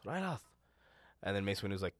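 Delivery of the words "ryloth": Sham impression.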